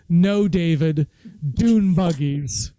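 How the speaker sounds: slow, mildly pleading mother's "No, David, dune buggies". Retold or imitated. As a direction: draw out "dune buggies" like a worried wife. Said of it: "she would always go".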